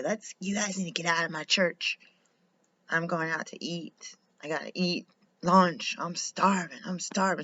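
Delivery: a hint of the hungry pastor complaining; imitating the pastor. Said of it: "He would say".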